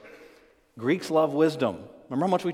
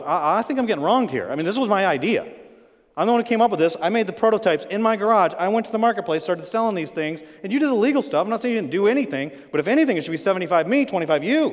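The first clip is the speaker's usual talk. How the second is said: louder, higher, wounded protest; aggrieved partner arguing his case; indignant protest; 3 semitones higher, 5 dB louder than usual. Acted. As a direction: push back hard, feeling cheated. Bob protests being wronged.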